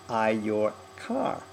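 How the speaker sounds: slow, separate hits on "I, your car"; Australian emphasis. Shown as a demonstration. Accent coach isolating the words Australians hit, slow Australian emphasis. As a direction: pick out "I", "your" and "car" slowly. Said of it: "explanation of who, uh, who's talking".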